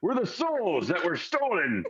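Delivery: lightly voiced grand storyteller ghost; ghostly boat souls. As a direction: announce it with mild spooky pomp.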